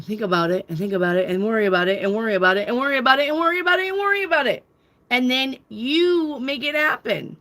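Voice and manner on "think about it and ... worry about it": anxious rambling. Retold or imitated. Vlogger mocking how people fret, rushing the repeats. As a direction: rattle it off like a spiralling worrier.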